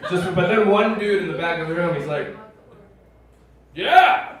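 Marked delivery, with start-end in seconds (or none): 3.8-4.4 high, loud whoop from the crowd; fan's yell. Acted. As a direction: holler like a fan at a rock show. Lone fan yells from back.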